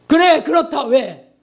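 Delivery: mock explosive snap at the disciples; angry outburst. Peter snapping at disciples who touch him, angry. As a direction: snap back in sudden anger. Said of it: "막 버럭 화를 낼 수도".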